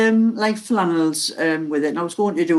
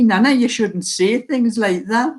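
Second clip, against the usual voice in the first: lightly imitated child, slow and higher; grandson's telling-off; 4 semitones higher than usual. Grandson corrects nana's Geordie, lightly imitated child's reproof. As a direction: scold gently as a young grandson, slow and higher. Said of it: "you know, and he".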